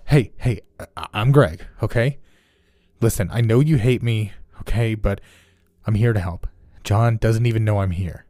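anxious reassurance. Acted. Greg calming screaming girl.

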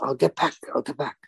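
put-on a referee brushing him off in a French Canadian accent. Referee stalling a confused rookie, mild French Canadian accent. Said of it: "in a French Canadian accent".

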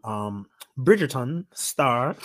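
slow, clumsy put-on British accent; terrible accent. Shown as a demonstration. Host introducing a clip, in a botched British accent. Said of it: "that's a terrible accent".

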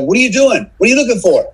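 high, worried questions in a lightly voiced wife; husband imitating his worried ex-wife, high and anxious. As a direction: mimic a nervous partner pestering. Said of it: "my ex-wife's like".

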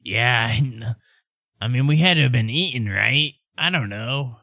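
hesitant, lightly put-on father; uncertain dad character. Ubo's dad trying to remember, hesitant put-on voice. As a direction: puzzle it out in character. Game master as the dad answers.

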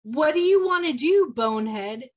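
hammed-up exasperated film quote; acted movie line. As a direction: fire off the insult, theatrically. Acting out Gale's movie line.

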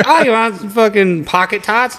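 mocking high offer. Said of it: "it's like".

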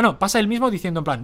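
ordinary delivery

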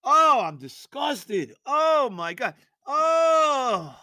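mock wailing, slow and drawn out; hammed-up anguish. Real, not acted. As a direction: play the despair big, half crying. Theatrical anguish over team.

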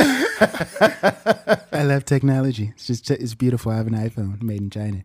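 mock presidential approval; Donald Trump. Co-host as president praising Chinese technology, Trump impression. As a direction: praise it in simple bursts. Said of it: "Donald Trump s-, talks in, like, bullet points".

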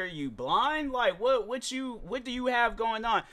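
mock an impatient traffic cop talking down to a driver; rude cop impression. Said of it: "I'm portraying to be a cop right now".

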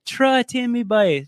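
put-on loud, high, clipped Newfie accent. Showing the friends how Newfies cut down syllables, in a loud Newfie accent. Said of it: "that's what they sound like".

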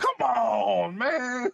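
high whiny plea; whiny pleading. Pretend. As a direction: beg in a mock whine. Pleading after refusal.

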